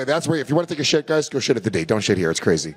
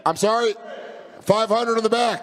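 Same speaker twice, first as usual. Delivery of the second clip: auctioneer calling bids; 5 semitones higher than usual. Pretend.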